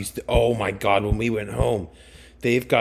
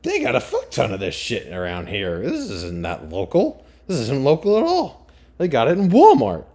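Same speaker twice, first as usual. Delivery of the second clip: mock indignant realization; 2 semitones higher, 5 dB louder than usual. Reacting to the spices in Walmart, rising to mock outrage. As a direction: act out finding it at Walmart, getting louder. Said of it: "and I was like".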